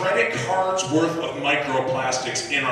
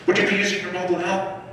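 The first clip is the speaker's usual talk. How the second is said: drive-through box voice; 5 semitones higher than usual. Retold or imitated.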